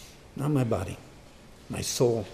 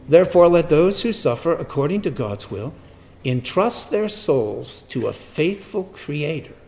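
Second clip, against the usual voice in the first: loud declaimed opening, easing by the end; scripture reading; 4 semitones higher, 7 dB louder than usual. Acted. Preacher repeating the verse to the congregation, declaimed scripture. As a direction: proclaim the verse, then settle.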